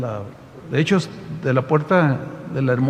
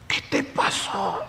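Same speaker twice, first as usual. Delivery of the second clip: slow whispered question; worried, gentle question; a slow, soft whisper; soft whispered concern; 2 semitones higher, 8 dB quieter, slower than usual. Retold or imitated. Pastor asks softly, concerned.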